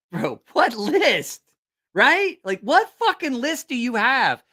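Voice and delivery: high, slow incredulous mockery. Real, not acted. Teller mocking his buddy's strange list. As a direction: stretch it out in disbelief.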